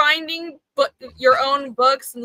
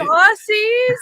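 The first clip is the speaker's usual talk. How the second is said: incredulous; 8 semitones higher, 8 dB louder than usual. Real, not acted. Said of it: "incredulous repeat".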